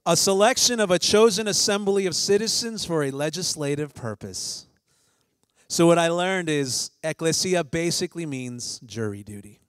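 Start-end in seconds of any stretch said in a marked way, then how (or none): 0.1-4.6 high, louder mock-grand reread; reading in disbelief. Shown as a demonstration. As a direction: read it as if it should sound epic. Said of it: "let me read that again".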